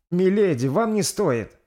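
high pleading interruption; midwife trying to speak. Acted. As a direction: try to calm the mother. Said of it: "попыталась высказаться повитуха".

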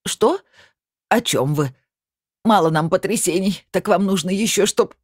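flustered protest at the guest, voice jumping up; agitated old woman. Acted. Old Matveeva protesting to the guest, agitated and rising. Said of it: "взмахнула дрожащей рукой старая Матвеева".

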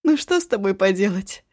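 laughing. Acted. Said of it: "расхохоталась".

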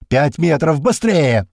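"Пять метров!" loud and high, then drawn-out "Быстрее!"; urgent radio shout. A narrator's reading. Radio voice urges runners, shouting "Пять метров! Быстрее!". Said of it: "раздаётся этот голос из рации".

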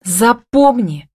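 high, drawn-out exclamation; cried out. A narrator's reading. Woman warning her partner, crying out. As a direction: cry it out slowly as an order. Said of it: "вскрикнула она".

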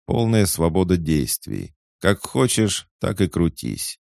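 lively, lilting lecture, a touch emphatic; lightly voiced teasing cat. Talking cat Царь lectures the boy about quests, teasing. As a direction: tease with emphatic, swooping high openings.

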